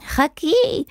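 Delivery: high-pitched urgent cry; shouted command. A narrator's reading. Wizard shouting at the fleeing hen, high and urgent. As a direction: call out high to stop someone. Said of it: "צעק המכשף".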